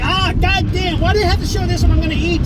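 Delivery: high, fast mock-complaint as mom; high rushed imitation of a disgusted mom; mom complaining. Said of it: "And she's like".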